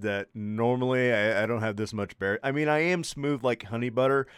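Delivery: stuffy, sick and congested. Real, not acted. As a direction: talk through a blocked nose. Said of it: "I'm so congested".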